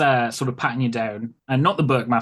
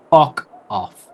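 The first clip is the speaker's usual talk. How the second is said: gruff dad; 2 semitones higher, 7 dB louder than usual. Acted. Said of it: "and he says".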